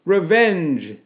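loud, high battle cry; acted vengeful shout. A narrator's reading. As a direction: shout it like an angry mob. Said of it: "the men shouted".

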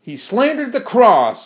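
high, outraged accusation; mild indignant scream. A narrator's reading. Martha accuses the machine of slander, high indignant cry. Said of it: "screamed Martha, getting red-faced".

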